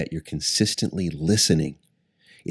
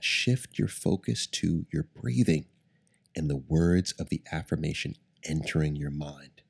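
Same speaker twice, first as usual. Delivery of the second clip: guided meditation. Acted. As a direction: ease them into calm breathing. Leads a guided breathing meditation.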